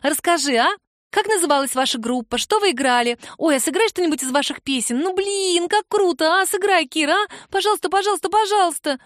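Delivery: put-on high, eager kid pleading nonstop; begging young girl. A narrator's reading. Girl begging Kira to play, high and eager. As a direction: beg like an excited child.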